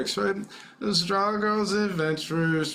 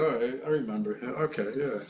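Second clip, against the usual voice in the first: vampire voice; 6 semitones lower, 4 dB quieter, faster than usual. Pretend. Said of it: "vampire voice".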